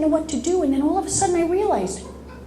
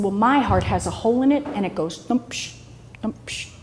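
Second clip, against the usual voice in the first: heartbeat with murmur; 6 semitones lower, faster than usual. Retold or imitated. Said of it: "I said".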